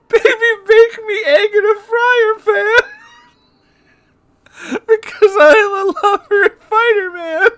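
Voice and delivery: high squealing laugh through the words; words squeezed out high through tears of laughter; laugh-crying. Real, not acted. Reading the fan fiction song while crying with laughter.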